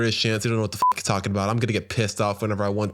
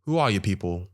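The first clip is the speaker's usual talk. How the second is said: put-on British accent. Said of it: "Are you doing a British accent".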